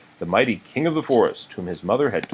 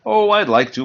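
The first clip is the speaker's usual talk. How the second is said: high, a bit louder fawn voice; Bambi's voice; 11 semitones higher, 6 dB louder than usual. Acted. Bambi turns down the game, high and bright. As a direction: lift it up like a young fawn.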